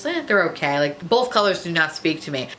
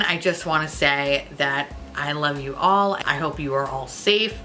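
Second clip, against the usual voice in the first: sincere; 3 semitones lower than usual. Real, not acted. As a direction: drop the jokes and mean it. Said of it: "on an all serious note here".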